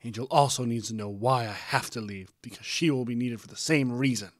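loud, insistent quarrel; heated arguing. A narrator's reading. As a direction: argue back forcefully, leaning on key words. Parents in a heated argument.

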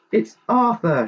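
high-pitched storybook shout of recognition; excited shout. A narrator's reading. Lady Daisy spots her missing cat, excited shout. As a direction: call it out high, falling at the end. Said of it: "shouted Lady Daisy".

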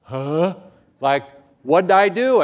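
loud, high-pitched bewilderment; clueless protest. Retold or imitated. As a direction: imitate a baffled, innocent student. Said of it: "they'd look at me like".

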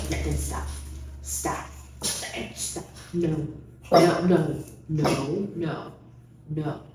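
low, quiet firm commands; calm the dog down softly; talking to a dog. Real, not acted.

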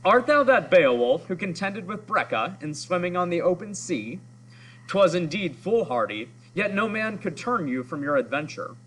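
haughty, sneering snob voice; snobby voice. Acted. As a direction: look down your nose at him. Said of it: "I'm gonna try to give him a snobby voice".

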